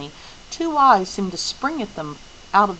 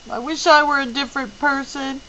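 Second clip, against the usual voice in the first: shakily; 7 semitones higher, 3 dB louder than usual. Acted. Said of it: "Meg said shakily".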